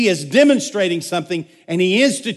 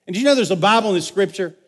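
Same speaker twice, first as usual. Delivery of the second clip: words tumbling out fast and jumbled; rushing and mixing up the words; tongue-tied slip; much faster than usual. Real, not acted. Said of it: "my mouth doesn't work".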